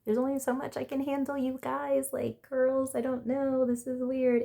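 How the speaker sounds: irritated. Retold or imitated. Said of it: "starting to feel irritated".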